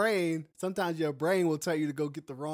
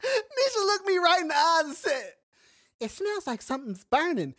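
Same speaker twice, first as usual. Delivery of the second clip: high, loud, breaking into laughter; laughing while telling; 12 semitones higher, 4 dB louder than usual. Real, not acted. Husband teasing wife about the smell, laughing. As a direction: push the words out through laughter. Laughing retelling of wife's remark.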